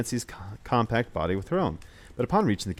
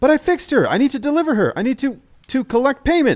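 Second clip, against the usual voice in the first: very high, very loud, shrill whining; 9 dB louder than usual. Narrating her plea to the guard who blocks her way, whining. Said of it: "the whining in her voice".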